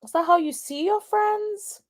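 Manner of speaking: put-on high voice, calling her out; mock questioning. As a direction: pose it as a high-pitched challenge. Mock-questioning the rapper in clip.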